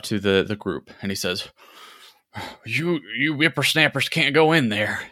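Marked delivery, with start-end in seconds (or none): 2.6-5.0 put-on higher crotchety old man warning. A narrator's reading. Old man scolding the young adventurers at the temple door, crotchety and higher. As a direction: scold like a cranky grandpa. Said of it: "this old man".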